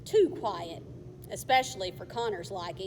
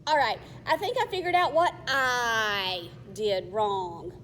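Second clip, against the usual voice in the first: louder, irritated repeat; annoyed; 4 dB louder than usual. Acted. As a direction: snap it back in annoyance. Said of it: "with her cheeks reddening with anger".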